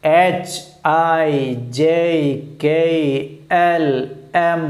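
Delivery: each letter from എച്ച് to സെഡ് said singly, a pause after each; alphabet pronunciation demo. Shown as a demonstration. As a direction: recite എച്ച്, ഐ, ജെ letter by letter for learners to copy. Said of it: "correct പ്രൊനൗൺസിയേഷൻ്റെ".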